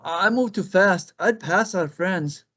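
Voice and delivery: high, quick bunny voice; jittery rabbit. Acted. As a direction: bounce through it like a hyper hare. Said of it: "said Conejo".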